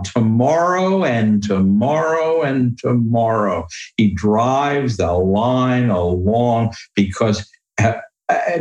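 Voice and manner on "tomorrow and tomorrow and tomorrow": "Tomorrow and tomorrow and tomorrow" slow, driving the beat forward; reciting Macbeth. Shown as a demonstration. Guest quotes Macbeth to show varied verse, slow driven recitation. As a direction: let the line trudge onward. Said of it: "Macbeth line".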